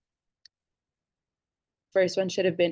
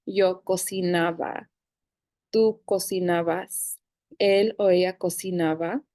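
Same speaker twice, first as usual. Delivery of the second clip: slow, clear model of each form for the class to repeat; teacher pacing out the verb forms; slow conjugation drill. Shown as a demonstration. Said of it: "I want us to practice this all together".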